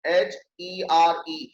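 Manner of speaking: slow spelling, each letter of एच ई आर ई apart; एच ई आर ई dictated slowly; spelled out slowly. Shown as a demonstration. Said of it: "आपने सुना होगा हेयर".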